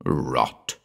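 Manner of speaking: low, uneasy dismissal; dropped pitch, mildly uneasy. A narrator's reading. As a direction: scoff with a touch of unease.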